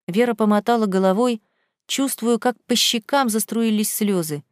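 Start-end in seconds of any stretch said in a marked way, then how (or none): none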